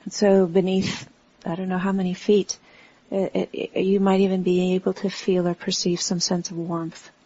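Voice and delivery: unhurried meditation guidance with long pauses; guided meditation. Real, not acted. Teacher guiding a standing group to relax into the earth, unhurried meditation voice. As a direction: talk them gently through the body, pausing between phrases.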